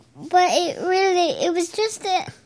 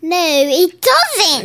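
playful protest; slower than usual. Pretend. Character argues with dad.

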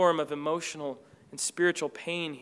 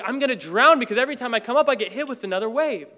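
fast, louder rush of panic; panicked swimmer; 4 semitones higher, 4 dB louder, faster than usual. Pretend. A swimmer hit by wave after wave, panicked and fast. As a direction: gasp it out between waves.

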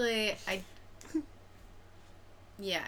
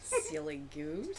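honking voice; 7 semitones higher, 6 dB quieter, slower than usual. Pretend. Repeating a silly phrase.

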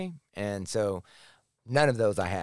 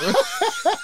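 high laugh; 4 dB louder than usual. Real, not acted. Laughs at his own story.

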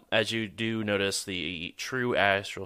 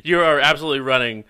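laughing; 4 semitones higher, 11 dB louder, faster than usual. Real, not acted. GM laughs at fleeing player.

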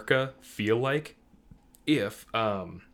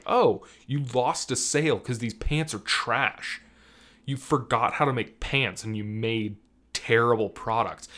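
emphatic, louder indignant rant; mock outrage; 5 dB louder than usual. Shopper scolding makers of shallow pockets, mock-outraged rant. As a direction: tell off the clothing makers with comic indignation. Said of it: "I'm like".

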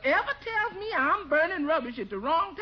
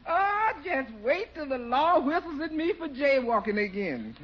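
laughing; 2 semitones lower than usual. Acted. Bertie laughing through the line.

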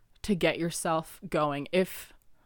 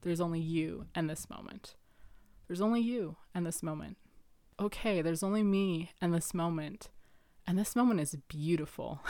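inner voice; 3 dB quieter than usual. Retold or imitated. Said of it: "a voice came in my head and it said".

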